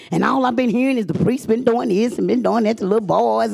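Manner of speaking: ordinary talk, nothing marked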